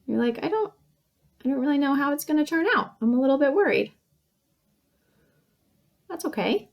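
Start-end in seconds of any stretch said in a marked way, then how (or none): 0.4-3.9 higher, hesitant worried voice; mild acted worry; acting worried. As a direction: fret gently, unsure. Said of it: "Maybe you're feeling worried".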